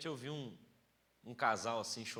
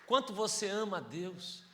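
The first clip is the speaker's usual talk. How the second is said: full-force preaching; 4 semitones higher, 5 dB louder than usual. Acted. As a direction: drive the message home to the church.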